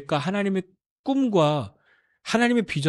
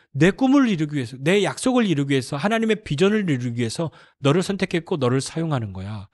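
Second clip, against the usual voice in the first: usual speaking voice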